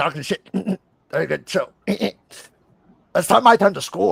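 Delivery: slow, drawn-out, creaky nineties-guy voice. Speaker imitating guys from the nineties who sounded like this, Beavis and Butthead voice. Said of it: "guys from the nineties that sounded like this".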